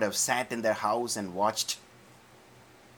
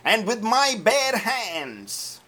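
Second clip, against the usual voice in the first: David building his threat at Goliath; 3 semitones higher, 6 dB louder than usual. Acted. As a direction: build each phrase to a battle cry.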